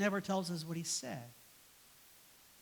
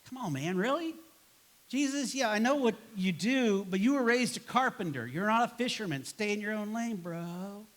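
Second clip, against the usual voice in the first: incredulous protest; 3 semitones higher than usual. Acted. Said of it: "Peter's gotta be thinking to himself".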